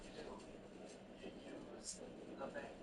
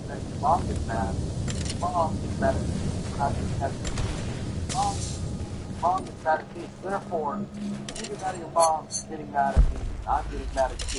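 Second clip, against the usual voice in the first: exasperated rant; 10 dB louder than usual. Acted. Dad's circular angry rant.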